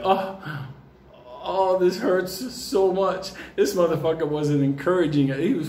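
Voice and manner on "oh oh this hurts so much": mock whimpering big guy. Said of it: "he's like".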